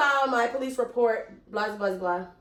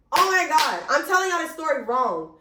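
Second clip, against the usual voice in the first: dismayed realization; 3 semitones higher than usual. Real, not acted. Realizes her mistake in the story.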